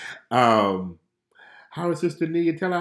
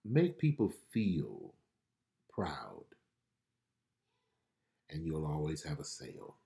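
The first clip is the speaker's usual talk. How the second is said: gentle prophetic counsel; 5 semitones lower, 5 dB quieter than usual. Retold or imitated. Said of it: "I hear the Lord saying this".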